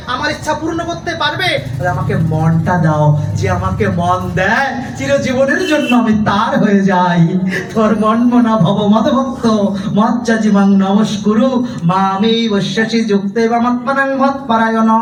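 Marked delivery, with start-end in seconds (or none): 1.9-7.4 slow and louder, leaning on আমাকে; louder, slow plea. Acted. Preacher voicing Krishna to devotees, slow and louder. 7.7-14.9 preaching at full force. Acted.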